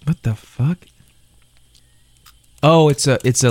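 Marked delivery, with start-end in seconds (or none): 0.0-0.8 whispered. Real, not acted. Reacting to the candy label.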